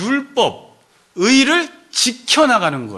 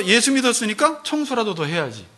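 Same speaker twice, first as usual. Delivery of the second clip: ordinary talk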